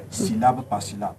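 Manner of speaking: slow, syllable by syllable; sounding out words. Shown as a demonstration. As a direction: space out each syllable. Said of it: "elle essaie de parler posément".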